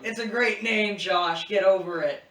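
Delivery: loud, high, emphatic comeback; exasperated scolding. Real, not acted. Host to co-host mocking a name, in loud exasperation. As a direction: tell your friend off loudly.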